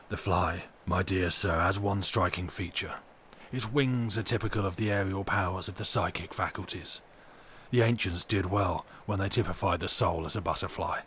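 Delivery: lightly voiced lunatic explaining with odd pride; lunatic Renfield.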